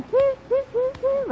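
high mock train toot; train whistle imitation. Wife waving off her husband, mimicking a train whistle high.

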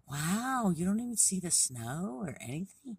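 high, loud astonishment; amazed storybook animal. Acted. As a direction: react big and high, in disbelief. Amazed reaction in animal dialogue.

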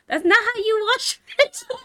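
high-pitched mock scolding cracking into laughter; mimicked criticism, giggling through it. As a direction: imitate a nitpicker and lose it laughing. Mimics man's scolding, breaks into laughter.

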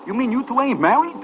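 surprised. Acted. Learns they are not married.

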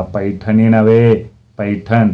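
"पैठणी नव्हे" drawn out loudly, then "पैठण" set apart; scornful correction. Acted. Father correcting son's mistake, "पैठण" pronounced with scornful emphasis.

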